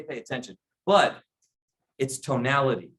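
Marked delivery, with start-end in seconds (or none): 0.0-0.6 quiet but firm. Shown as a demonstration. Advisor quietly getting the client's attention. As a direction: drop the voice so they lean in. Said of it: "Sometimes you can say".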